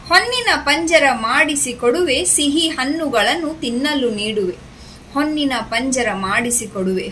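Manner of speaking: lilting, measured verse reading; poem recitation. Shown as a demonstration. Teacher reads rabbit poem to children, sing-song recitation. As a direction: recite it in rising and falling waves.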